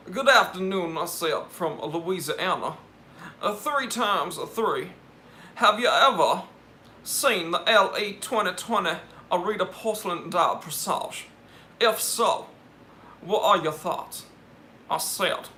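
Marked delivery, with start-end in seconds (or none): 0.1-1.0 Southern gentleman. Pretend. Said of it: "that's my Louisiana gentleman impression". 1.5-14.3 Southern gentleman. Pretend. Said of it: "that's my Louisiana gentleman impression".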